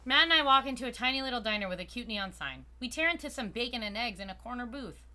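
measured first-person storytelling; story narration. A narrator's reading. Narrating a diner visit with Matt, story narration. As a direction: read it out like a story. Reads the game's story aloud.

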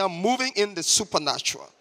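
brisk, emphatic declaration; quick, committed affirmation for others to repeat; like you are doing it. Shown as a demonstration. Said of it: "say it like you are doing it".

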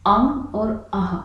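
अम और अह drawn out slowly, the air let through the nose; nasal vowel demo. Shown as a demonstration. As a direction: stretch out अम और अह and let them ring nasally. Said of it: "उदाहरण के तौर पर देखिए". (अम और अह धीरे, नाक से खींचकर)

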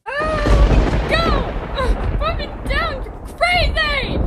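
frightened high yell, slow; carried over shoulder. Acted. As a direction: shout while being carried off. Carried off, yelling.

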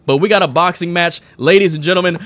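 mock boxing ring announcer. Announcer to crowd at first Warzone boxing match, mock ring announcer. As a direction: present the fighters like a ring emcee.

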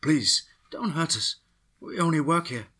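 put-on frightened woman pleads with soldiers in a Latin accent; thick Latin accent. A narrator's reading. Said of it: "screamed in a thick Latin accent".

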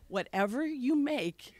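slow, resigned placating line with a laugh. Retold or imitated. Daughter giving mother the husband's slow, resigned answer. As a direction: give in slowly, echoing the husband. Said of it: "then I hear myself say".

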